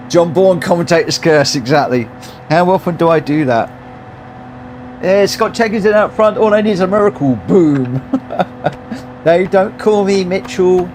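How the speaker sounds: loud, high, thrilled race-win cheer; excited shouting. Real, not acted. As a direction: shout it like you just won.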